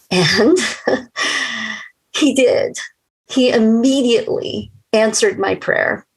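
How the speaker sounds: real joy breaking into laughter; relieved laugh. Real, not acted. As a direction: laugh with relief, then say it bright and high. Relieved joy at answered prayer.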